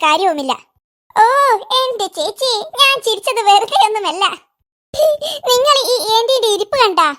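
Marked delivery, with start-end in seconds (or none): 5.5-7.1 laughing. Acted. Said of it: "നീ എന്തിനാണ് ഇങ്ങനെ വെറുതെ ചിരിക്കുന്നത്?".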